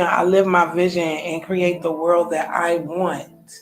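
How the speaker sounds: slow, deliberate affirmation read. Shown as a demonstration. Speaker reciting her daily affirmation, slow and deliberate. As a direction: speak it like a personal creed, slowly.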